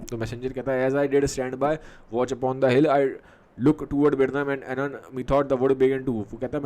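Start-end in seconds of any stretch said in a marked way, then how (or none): 0.9-6.3 drawn-out, halting reading of the soliloquy; teacher reads Macbeth's soliloquy slowly; slow Shakespeare recitation. Acted. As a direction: let each phrase hang. Reads the messenger's report.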